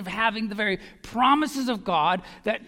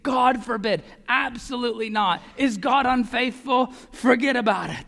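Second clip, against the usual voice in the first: emphatic; 4 dB louder than usual. Retold or imitated. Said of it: "He's saying".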